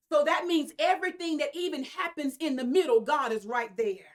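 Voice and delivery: rising preacher's call; preaching climax. Real, not acted. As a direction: lift the congregation with a loud push.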